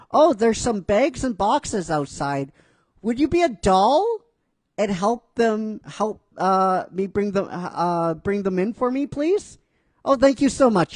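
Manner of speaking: sweetly asking. Acted. Sweet request acted in character.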